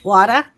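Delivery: "Water" ending in an open "ah"; dropped R. Shown as a demonstration. Streamer showing her accent, "Water" without its R. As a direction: say "Water" with no R at the end. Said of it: "We don't pronounce our R's".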